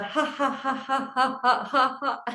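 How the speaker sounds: rhythmic ha into giggle; laughing on the breath out. Shown as a demonstration. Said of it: "as you breathe out".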